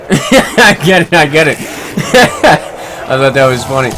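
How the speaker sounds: laughing through the words, slow. Real, not acted. Streamer laughing at a viewer's doctor joke, laughing. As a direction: chuckle out the words.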